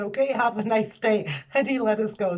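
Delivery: laughing at how easy it was; retelling the easy police stop, amused. Retold or imitated. Police officer lets them go.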